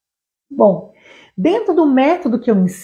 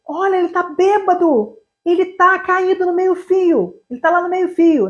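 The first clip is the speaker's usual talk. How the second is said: subtitle reading; 6 semitones higher than usual. Shown as a demonstration. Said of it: "ia aparecer".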